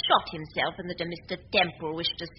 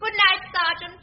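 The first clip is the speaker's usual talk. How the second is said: sing-song goodnight, much higher and louder; fluting goodnight; 13 semitones higher, 4 dB louder than usual. Acted. Old lady bidding the sergeant goodnight, high fluting. Elderly lady's fluting farewell.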